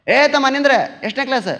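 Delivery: loud, high policeman's holler; calling out. Retold or imitated. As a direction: shout to stop a running boy. Policeman stops a running boy. (ಜೋರಾಗಿ ಕೂಗಿ ತಡೆಯುವುದು)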